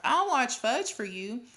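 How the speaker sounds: put-on high, pleading kid; eager begging. A narrator's reading. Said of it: "begged some more".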